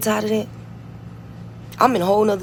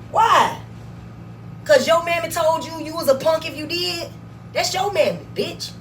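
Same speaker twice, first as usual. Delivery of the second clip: scornful retort; 4 semitones higher than usual. Real, not acted. Mocking critic's upbringing.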